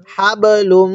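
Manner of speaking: crisp stop on হাব, hummed m held in লুম; tajweed model. Shown as a demonstration. Teacher showing how lam joins mim, nasal hum on লুম. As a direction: bounce off হাব, then hum the end of লুম. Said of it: "এই মিমের সাথে লুম".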